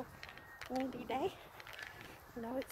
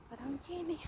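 muffled behind a face mask; words muffled by a mask; through a mask; 2 semitones higher, 7 dB quieter, faster than usual. Real, not acted. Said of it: "can't understand me with the mask on".

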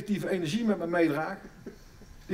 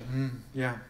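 therapist phrase; 7 semitones lower, 6 dB quieter than usual. Shown as a demonstration. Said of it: "Zinnen als, eh".

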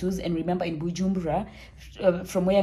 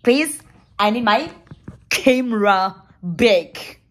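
pleading; 3 semitones higher, 7 dB louder, slower than usual. Retold or imitated. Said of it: "Deep down, I pretend".

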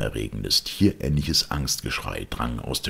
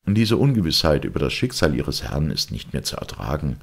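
higher, louder lawyer giving orders; commanding lawyer; 6 semitones higher, 5 dB louder, faster than usual. Acted. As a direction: take charge and issue firm instructions. (energisch befehlender Advokat)

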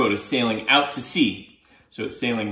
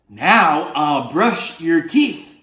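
mild octopus voice; 4 semitones higher, 5 dB louder, much slower than usual. Acted. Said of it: "the octopus says".

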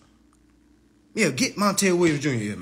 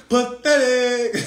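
scornful; 5 semitones higher, slower than usual. Real, not acted. Repeating pathetic to the viewers, slow and scornful. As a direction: drag it out with contempt.

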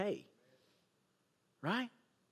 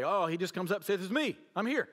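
dismissive paraphrase; 2 semitones higher, faster than usual. Retold or imitated. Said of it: "and just say".

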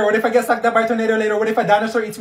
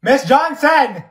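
calling out; 3 semitones higher, much slower than usual. Acted. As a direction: shout the name across the room. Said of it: "please lower your voice".

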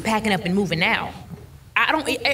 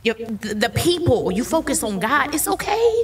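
emotional reassurance; 3 semitones higher than usual. Real, not acted. Woman comforting someone going through the same struggles, emotional reassurance. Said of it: "it's gonna make me emotional".

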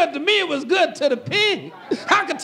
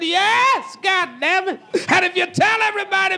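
defiant shout back; 4 semitones higher than usual. Retold or imitated. Husband shouting back at his angry wife, defiant. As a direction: yell right back at her, unashamed.

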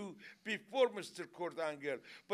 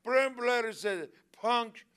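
angry; 4 dB louder than usual. Real, not acted. Wrestler trash talk.

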